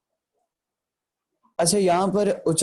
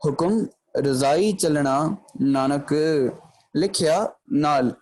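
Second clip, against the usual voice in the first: recited gurbani line; slower than usual. Shown as a demonstration. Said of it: "यहाँ पर पंक्ति बात करी है".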